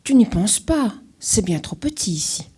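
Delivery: loud refusal, sharp dismissal; refusing loudly. Acted. Animals refusing Alfred a place, loud and dismissive. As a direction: push him away with your voice.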